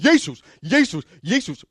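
loud, high calls of Jesus; imitated fervent shouting. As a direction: shout the name like a praying crowd. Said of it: "og man råber". (råbende efterligning af bønnende)

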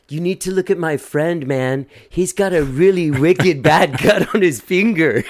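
high, drawn-out voice like a singer's. Retold or imitated. Friend pleads with emergency room staff, high imitation of a singer. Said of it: "She, she sounds like Tom".

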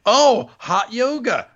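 high, loud exclaimed voice; imagined yoga fighter. Acted. Wondering if he teaches yoga, high mock fighter voice.

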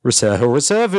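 reserve said as a reversed sound; imitating reversed speech. Shown as a demonstration. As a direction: mimic the reversed clip as reserve. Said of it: "I need your reversal rehearsal".

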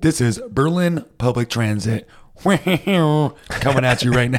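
announcer voice. Pretend. Fake transit announcement.

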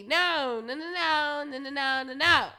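repeated loud no no no. Retold or imitated. Refusing loudly, repeated no.

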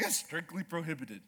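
low, slow rancher drawl; slow cowboy drawl. Retold or imitated. Ranch manager to hunter, a slow low drawl. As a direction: lay it out easy like an old cowboy. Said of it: "slow, calm drawl".

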